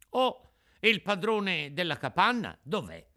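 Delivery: put-on high, wondering puppet-boy voice; amazed. Puppet finds nobody inside the hut, amazed. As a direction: puzzle aloud at the empty room. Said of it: "disse Pinocchio maravigliato".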